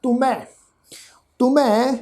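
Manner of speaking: "ਤੁਮੈ" as tu-mhai, with a heavy, breathed m; weight the m of "ਤੁਮੈ" with an h, then open "ai"; weighted h ending. Shown as a demonstration. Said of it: "ਪੈਰ ਦੀ tone ਨੂੰ ਭਾਰਾ ਕਰਕੇ".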